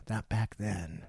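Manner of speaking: slow hushed villain speech; soft menacing villain impression; Thulsa Doom whisper. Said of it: "does this little speech".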